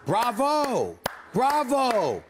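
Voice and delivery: mock applause, dripping sarcasm; sarcastic bravo to the Redskins players on camera. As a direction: cheer them with a sneer in it. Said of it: "let me look into the camera at those Redskins players".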